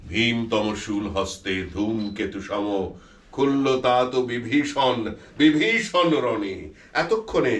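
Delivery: বীর রসে আবৃত্তি; heroic poem recitation. Acted. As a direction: declaim it like an epic hero. Recites Michael's blank verse.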